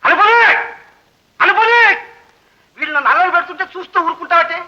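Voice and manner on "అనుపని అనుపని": calling out to wife. Acted. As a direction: call her name from the room. (భార్యను గట్టిగా పిలవడం)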